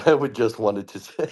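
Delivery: cracking up mid-line; laughing. Real, not acted. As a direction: break into laughter while reading. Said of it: "breaking character".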